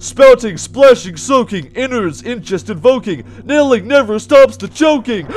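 urgent, punchy rhyme reading; dramatic read-aloud. Real, not acted. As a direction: read the verse out with rising alarm. Reads out the game's rhyme aloud.

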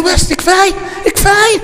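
flustered high-pitched pleading to stop; urgent protest. Retold or imitated. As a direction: stop him in a rush. Prophet stopping man kissing him.

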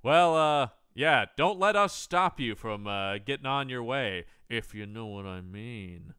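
nudge-nudge insinuation; mildly hammed-up innuendo; suggestive hint. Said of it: "Tom has this line where he's like".

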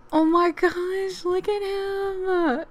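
gasp, then high, drawn-out adoration; awed cooing. Real, not acted. Player seeing the new baby, awed and cooing. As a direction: coo slowly over a newborn. First sight of the newborn.

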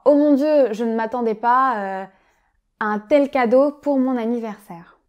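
as if opening an unexpected gift; overjoyed thanks for a present; delighted. Shown as a demonstration. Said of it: "parce qu'on est très heureux".

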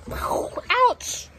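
high-pitched pained yelp; pained ouch. Acted. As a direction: yelp as if hurt. Acting out a story mishap.

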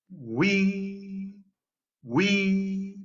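weep given emphasis; stressed weep. Shown as a demonstration. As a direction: lean on the syllable weep. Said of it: "da un énfasis en la sílaba weep".

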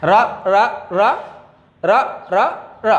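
short isolated র, evenly spaced; letter sound drill. Shown as a demonstration. Teacher likens R to Bangla র, sound drill. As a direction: sound out র beat by beat. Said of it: "বয়বিন্দু র এর মতো".

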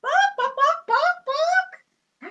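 high joking bark; mock wrong animal sound; silly bark. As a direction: pretend the chicken barks. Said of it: "What's the chicken say".

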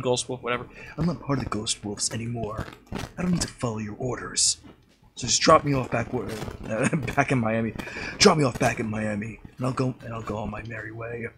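lightly voiced Snake; a hint of the stealth soldier. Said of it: "snake voice".

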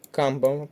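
Камбала stressed on КАМ; Камбала as КАМ-бала; stress on first syllable. Shown as a demonstration. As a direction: hit КАМ at the start of Камбала. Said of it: "перший склад".

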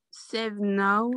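put-on a clumsy English accent on Save Now; bad English accent. Trainer reads the promo code to new distributors, bad English accent. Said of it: "j'ai un accent anglais pourri".

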